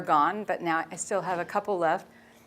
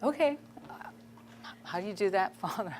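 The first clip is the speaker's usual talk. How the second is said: incredulous self quote; 8 dB quieter than usual. Retold or imitated. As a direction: play your own bewildered younger self. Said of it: "I'm like".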